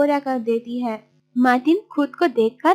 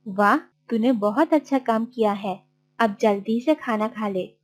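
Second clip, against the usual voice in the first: approving aunt; 2 semitones lower, 4 dB quieter than usual. Acted. Aunt praising Martin's finished work, approving. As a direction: praise the helper in a lowered voice.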